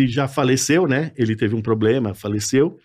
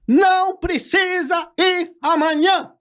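much higher, slow cold dismissal; Carlos Alberto firing; slower than usual. Pretend. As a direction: pretend boss telling him not to come. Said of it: "igual a voz, o Carlos Alberto". (demissão fingida, bem aguda e lenta)

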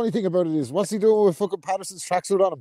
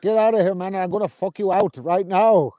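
imitating Demetrius. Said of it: "I love what he said".

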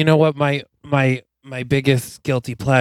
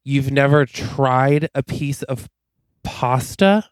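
disbelieving; slower than usual. Retold or imitated. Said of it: "And he's like".

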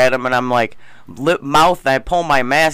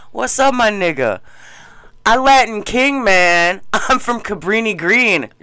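higher hammed-up wannabe bragging; mock his fake street boast, pitched up; imitating the wannabe guy; 6 semitones higher than usual. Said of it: "Said this to the black guy".

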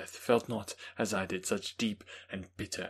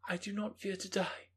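put-on young Justine; 12 semitones higher than usual. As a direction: voice Justine as a calm young woman. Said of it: "she said".

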